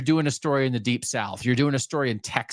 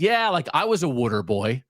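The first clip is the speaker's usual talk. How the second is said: put-on Philly accent. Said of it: "he said".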